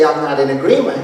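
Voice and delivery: low, soft imitation of a wife; soft disagreement. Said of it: "softly say".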